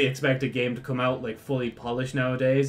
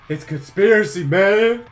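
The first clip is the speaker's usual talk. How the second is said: outraged; 6 semitones higher, 9 dB louder than usual. Real, not acted. Mock outrage.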